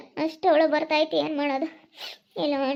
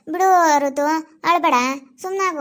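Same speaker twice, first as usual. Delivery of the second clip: firm consoling; 5 dB louder than usual. Real, not acted. Mother consoling crying daughter.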